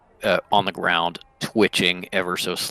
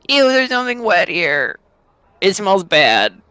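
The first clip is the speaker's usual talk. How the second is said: Kekano; 12 semitones higher, 5 dB louder than usual. Acted. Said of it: "you hear Kekano go".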